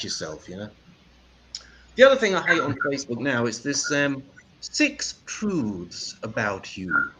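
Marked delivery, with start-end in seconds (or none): 4.6-7.1 slow, drawn-out mock announcement. Shown as a demonstration. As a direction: sneer it out slowly. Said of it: "Have you seen this bullshit?".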